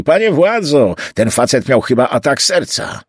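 urgent bystander's call. Acted. Bystander calling to a policeman about a collapsed man, calling out.

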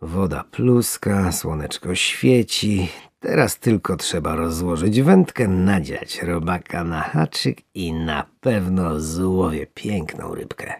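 savouring a lazy morning; content fisherman. Acted. Fisherman happily plans to catch a fish, slowly.

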